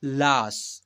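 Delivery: लाश with a long drawn-out आ; pronunciation demo. Shown as a demonstration. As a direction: model लाश slowly as one stretched syllable. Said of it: "ऐसे उच्चारण करेंगे". (लाश को आ खींचकर बोलना)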